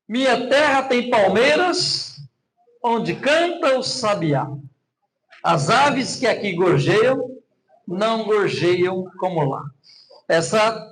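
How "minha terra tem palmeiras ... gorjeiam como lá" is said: slow, measured poem reading; poem recital. Shown as a demonstration. Pastor reciting a famous poem to explain rhyme, slow and measured. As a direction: recite it slowly like a classic poem. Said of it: "você faz rimas de várias formas".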